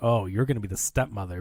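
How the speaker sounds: ordinary delivery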